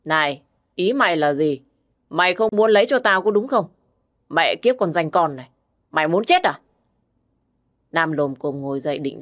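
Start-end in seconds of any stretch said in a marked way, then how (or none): 0.0-6.6 slurred drunk threats, lightly voiced; a hint of a drunk man slurring. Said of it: "cất cái giọng lè nhè".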